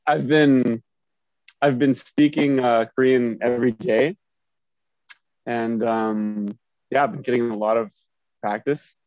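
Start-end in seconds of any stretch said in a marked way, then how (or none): 0.1-4.2 words muffled by a bite of peach; mouth full. Real, not acted. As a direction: chew and talk at once. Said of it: "sorry, I'm just eating a peach right now".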